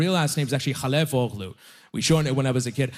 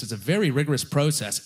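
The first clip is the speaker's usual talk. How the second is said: normal talking voice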